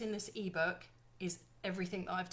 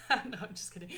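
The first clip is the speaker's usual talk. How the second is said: laughing; faster than usual. Real, not acted. Joking about feedback.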